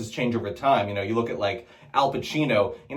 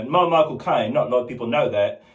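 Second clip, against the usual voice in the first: Michael Caine; faster than usual. Retold or imitated. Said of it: "everyone does".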